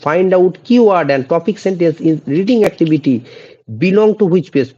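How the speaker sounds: slow, deliberate dictation pace; slow quiz reading; slow question read. Shown as a demonstration. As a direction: read each word out for the class. Reads question again.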